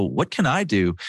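flat, defeated question, said plainly; hopeless shrug. Retold or imitated. Husband shrugging at a stranger in the heat, defeated. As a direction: give up before you start. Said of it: "I go".

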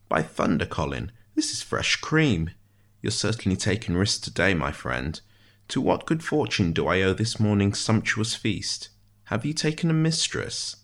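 lightly voiced precise figure, rising into teasing; wry prisoner, marvelling. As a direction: marvel grandly, then probe playfully. Ishmael marvels at fresh cream.

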